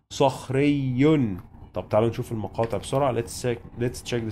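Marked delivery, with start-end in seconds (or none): 0.1-1.4 صخري slowly, ending with "un"; tanween demo. Shown as a demonstration. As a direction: say صخري with the final "un", unhurried. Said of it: "with تنوين بالضم". (صخري بالتنوين بالضم ببطء)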